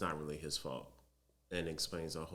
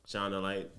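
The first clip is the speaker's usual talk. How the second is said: dragon voice; 2 semitones higher, 5 dB louder than usual. Retold or imitated. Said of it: "that's my, my best dragon voice".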